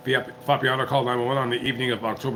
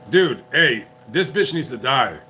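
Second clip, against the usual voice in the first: angry; 3 dB louder than usual. Real, not acted. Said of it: "I'm getting a little bit angry right now".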